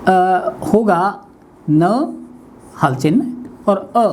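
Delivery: न broken into sounds, very slowly; slow spelling out. Shown as a demonstration. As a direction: sound out each letter of न deliberately. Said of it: "वर्ण विच्छेद करते हैं". (न को धीरे-धीरे वर्णों में तोड़कर बोलें)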